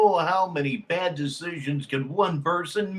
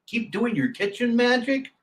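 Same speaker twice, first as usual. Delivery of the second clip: raised, disbelieving mock question; incredulous; 6 semitones higher than usual. Real, not acted. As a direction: echo it back as if it's absurd. Mocking repeat of the streamer's words.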